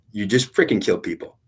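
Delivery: mildly heated accusation; retold anger. God scolding the young gunner, mildly angry retold accusation. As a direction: scold with a touch of anger, retelling it. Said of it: "He was mad at me".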